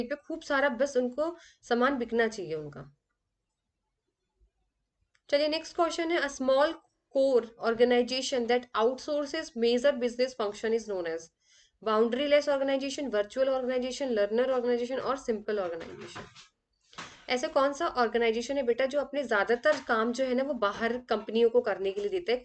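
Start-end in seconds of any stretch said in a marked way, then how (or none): 6.2-16.2 very slow, careful dictation of the exam question; reading out a question. Acted. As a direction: read each word of the question out slowly for students. Reads the exam question aloud. (धीरे-धीरे प्रश्न पढ़कर सुनाना)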